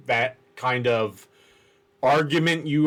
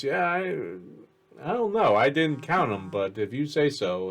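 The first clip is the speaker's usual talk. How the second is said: dismissive guard; 3 dB quieter than usual. Acted. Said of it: "He goes".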